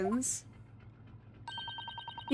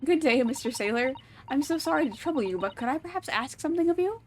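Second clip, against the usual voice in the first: polite retry; 3 semitones higher than usual. Acted. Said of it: "let me try instead".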